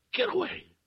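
high, loud frightened cry; hoarse cry. A narrator's reading. Woman drives off the man at her door, crying out. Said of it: "she cried hoarsely".

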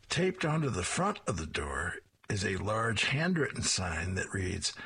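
ordinary delivery

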